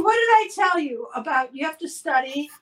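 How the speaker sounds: ordinary talk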